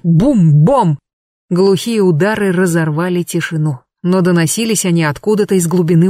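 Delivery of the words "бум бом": booming thuds. A narrator's reading. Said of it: "Стук, грохот в ночи".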